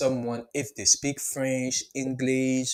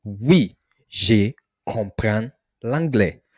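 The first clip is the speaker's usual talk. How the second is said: slow, louder Oui je comprends; slow model answer; 5 dB louder, slower than usual. Shown as a demonstration. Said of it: "the response you should give".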